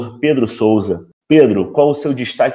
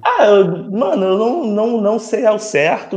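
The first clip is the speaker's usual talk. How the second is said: choked up with laughter; laughing; 8 semitones higher than usual. Real, not acted. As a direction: talk through a laughing fit. Laughing fit about dog group. (falando entre risos)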